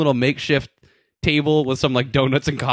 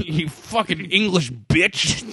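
Chauncey impression; much slower than usual. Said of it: "That was basically Chauncey in a nutshell".

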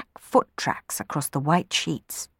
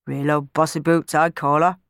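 muttering. Acted. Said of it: "muttered Clem".

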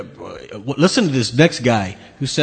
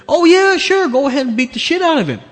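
sarcastic; 13 semitones higher, 4 dB louder than usual. Real, not acted. Sarcastic mock permission in rant.

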